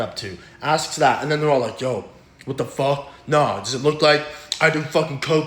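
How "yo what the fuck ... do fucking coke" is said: a put-on voice for offended bar strangers; annoyed strangers. Stranger at the bar telling a man asking for coke to back off, a mock offended put-on voice. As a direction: brush him off like a stranger who was insulted.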